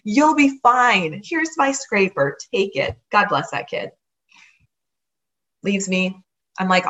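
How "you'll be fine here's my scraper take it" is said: easygoing Wisconsinite. Retold or imitated. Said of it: "This is a true Wisconsinite".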